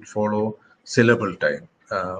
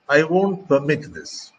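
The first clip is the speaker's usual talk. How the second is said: "permit" stressed on its second syllable, MIT; weight on the end of "permit"; verb stress; 4 semitones higher than usual. Shown as a demonstration. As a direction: say "permit" as per-MIT within the sentence. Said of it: "Permit is a verb".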